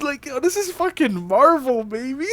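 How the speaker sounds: gleeful villain, laughing through it; hammy excited Goblin. Retold or imitated. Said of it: "It's like".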